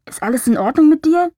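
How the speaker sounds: a voice drifting from far off; distant voice. A narrator's reading. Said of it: "drang die Stimme wie aus weiter Ferne".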